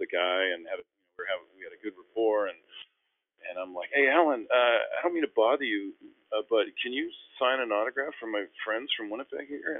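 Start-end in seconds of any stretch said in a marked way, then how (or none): 3.9-9.8 higher-pitched, hesitant polite ask; retold timid autograph request; sheepish request. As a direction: ask a favour apologetically. Asking star teammate for autograph.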